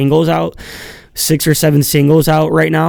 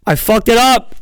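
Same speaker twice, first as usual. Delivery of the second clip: mock triumphant; 9 semitones higher than usual. Cheering at own flubbed joke.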